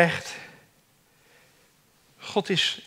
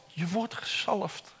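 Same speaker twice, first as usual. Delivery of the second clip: much softer, almost under the breath; soft echo; 10 dB quieter, slower than usual. Shown as a demonstration. Preacher repeating God's promise, hushed. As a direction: let the repeat sink in quietly. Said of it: "repeated quieter".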